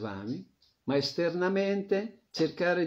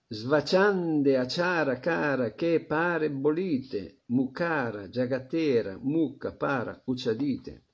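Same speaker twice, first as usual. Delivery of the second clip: scripture recitation. Acted. Recites Bengali scripture verse.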